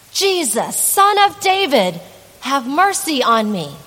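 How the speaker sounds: retold beggar's cry, loud and high; shouting. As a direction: call out to Jesus over the crowd. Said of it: "he shouts".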